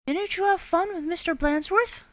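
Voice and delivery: high, loud innocent question; sly teacher. Acted. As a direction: tease them knowingly. Miss Nelson teasing.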